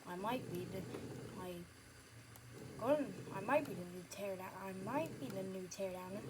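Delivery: put-on a kid boasting he's the new hero; boy character voice. Boy answers in another voice.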